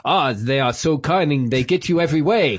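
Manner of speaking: bad attempt at an Arab accent. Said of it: "was that your attempt at an Arab accent?".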